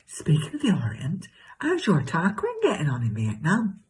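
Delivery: hammed-up chatty gossip with leaping pitch; exaggerated comic self. Telling Cheryl about her new neighbour, exaggerated comic gossip. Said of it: "do an exaggerated version of myself".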